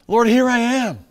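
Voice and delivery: high, loud call falling at the end. Acted. Calls out to God.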